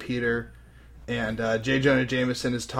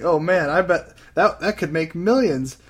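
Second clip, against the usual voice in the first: lightly acted eager movie executive, louder and higher; excited executive; 4 semitones higher, 7 dB louder than usual. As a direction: play a producer getting carried away. Acts eager executive pitching stars.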